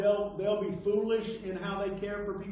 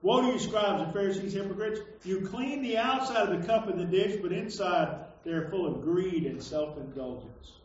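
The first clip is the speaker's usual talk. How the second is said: declaimed scripture reading; 3 dB louder than usual. Acted. Preacher reads Jesus's woes to hypocrites, declaimed. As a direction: hit the opening woe loud, then read on firmly.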